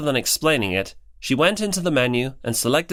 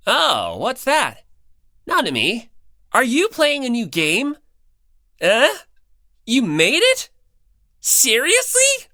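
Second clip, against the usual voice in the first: much higher, eager astonished questions; a classmate finding out that Nanami made a game, much higher and astonished; excited surprise; 10 semitones higher, slower than usual. A narrator's reading. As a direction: gasp it out in disbelief. Classmate discovers new game.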